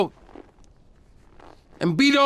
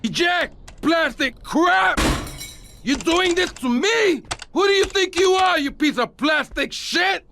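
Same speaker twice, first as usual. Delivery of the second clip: higher, furious yelling at the player; shouting at plastic junk; angry at machine; 4 semitones higher than usual. Acted. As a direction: rage at a broken gadget. Man yelling at broken player.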